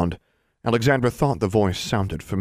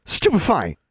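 high-pitched cry of attack; yelled spell; 11 semitones higher, 3 dB louder than usual. A narrator's reading. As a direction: yell it like a hurled spell. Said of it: "yelled the tallest girl".

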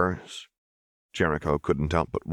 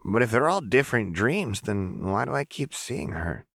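put-on higher, lighter voice of a strange young girl; 6 semitones higher than usual. Narrator voicing Jinx, insistent young girl. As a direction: voice the girl insisting she knows her.

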